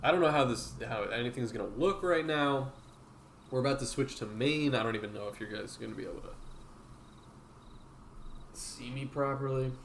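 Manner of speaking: talking with a mouthful; chewing between words; chewing while talking. Real, not acted. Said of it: "Sorry about the chewing A S M R".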